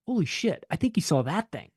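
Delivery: high-pitched start, dawning amazement; awestruck, starting high and easing down; retold astonishment. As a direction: re-enact a stunned realisation. Recalling his realisation watching TV.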